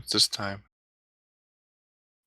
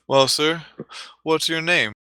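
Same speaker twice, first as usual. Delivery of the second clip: clown addressing volunteer; 5 semitones higher than usual. Acted.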